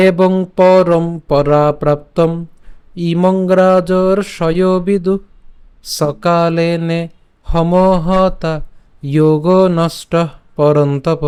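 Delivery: calm, measured shloka reading; full verse chanted slowly; slow full recitation. Shown as a demonstration. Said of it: "শুরু করে যদি পাঠ করি".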